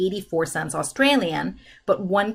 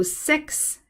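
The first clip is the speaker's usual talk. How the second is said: slow keying dictation; much slower than usual. Shown as a demonstration. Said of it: "so to put that in".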